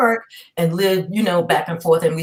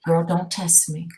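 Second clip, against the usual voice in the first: slow stern warning; slower than usual. Retold or imitated. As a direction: lay it down slowly, daring her. Mother warning mouthy daughter.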